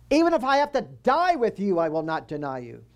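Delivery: high, loud, fervent promise; passionate vow. Acted. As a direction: swear it with all your heart.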